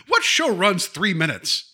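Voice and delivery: high, slow mock disbelief; incredulous. Questioning the three-minute show, incredulous. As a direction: draw it out in exaggerated disbelief. Acts out his incredulous reaction.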